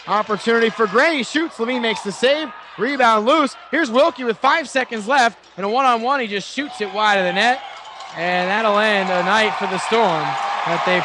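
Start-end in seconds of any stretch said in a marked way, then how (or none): 0.1-7.6 rising, urgent call of a shot; excited play-by-play. Real, not acted. Scoring chance in final seconds.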